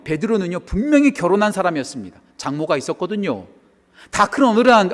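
ordinary talk, nothing marked

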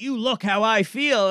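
slow, lightly rasped imitation; raspy voice. Big wrestler to hungover stranger at the bar, lightly imitated raspy voice. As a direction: imitate a raspy voice, taking it slowly. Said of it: "this raspy voice".

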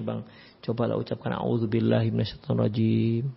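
measured, low-key coaxing of a husband; acted wife calmly suggesting a prayer; well-timed gentle urging. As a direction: coax evenly, without pushing. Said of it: "timing yang bagus, yang tepat".

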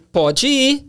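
high, loud ironic "Pode ir."; sarcastic permission. Retold or imitated. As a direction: imitate a wife whose permission really means no. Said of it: "pelo tom, você entendeu". (permissão irônica, aguda e forte)

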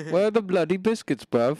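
put-on gentle British accent. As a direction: play a gentle British man. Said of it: "you sound like a very gentle British man".

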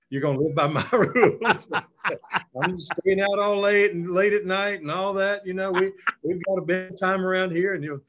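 lightly acted lecture to a parent; daughter laying down rules. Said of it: "she gave me the whole rundown".

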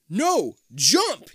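high, loud urgent command; shouting. A narrator's reading. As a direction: shout the order. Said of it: "you shout".

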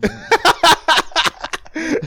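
loud high burst of laughter; shrieking laugh. Real, not acted. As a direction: cracks up. Big laugh.

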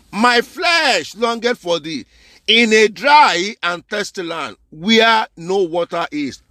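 slow, drawn-out reading of the verse; scripture reading. Acted. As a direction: read it out slowly like holy writ. Reading the psalm aloud.

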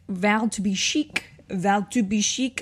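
lightly put-on French accent; badly faked French accent, rising at the end; terrible French accent. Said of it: "saying in a terrible French accent".

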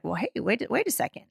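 put-on small voice, retelling a child's puzzlement; puzzled little boy. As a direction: lightly mimic a puzzled kid. Retells his young son's puzzlement.

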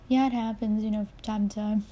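casual, matter-of-fact shrug; nonchalant. Retold or imitated. Answering someone freaked out by the bleeding lip, nonchalant. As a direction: brush it off like it's everyday. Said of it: "like it was a normal everyday thing".

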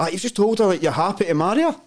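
high laughing voice; missus laughing. Retold or imitated. Missus laughing at the Swahili mistake. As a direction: laugh it out as the amused wife. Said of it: "And my missus is like".

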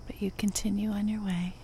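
unhurried nature-walk narration with long pauses; guided meditation. Acted. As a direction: lead listeners along the path, one short phrase at a time.

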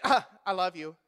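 sigh, then say it as an empty duty; half-hearted mock affection; empty, meaningless. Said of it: "Doesn't mean anything".

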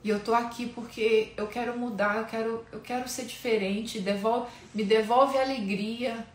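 earnest spoken prayer to God; a sincere, pleading prayer; heartfelt prayer. Acted. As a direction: pour out a confession before the Lord. Leads a confession prayer.

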